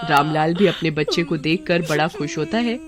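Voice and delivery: usual speaking voice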